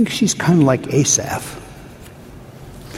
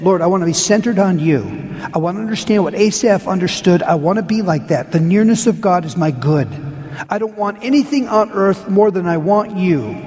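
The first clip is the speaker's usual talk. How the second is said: pleading, confessional prayer voice; heartfelt prayer. Pretend. Pastor modelling a worshipper's confession, pleading. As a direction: pray it aloud like you mean it.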